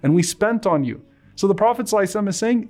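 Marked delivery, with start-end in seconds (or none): 0.0-1.0 heartfelt preacher building the story to its climax; impassioned retelling. Acted. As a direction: plead the Ansar's case with rising passion. Prophet voicing the Ansar's reply.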